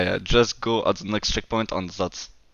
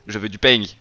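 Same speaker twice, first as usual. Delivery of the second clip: southern French; 2 semitones lower, faster than usual. Shown as a demonstration. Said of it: "in the south of France, they would say".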